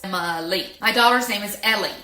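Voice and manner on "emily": Emily broken into three beats; Emily in separate syllables. Shown as a demonstration. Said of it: "There are three syllables".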